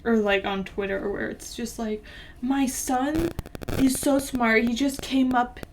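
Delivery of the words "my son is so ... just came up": lightly voiced bragging mom, a little higher; mock a gushing parent; hammed-up proud-parent brag. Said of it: "those posts that you see".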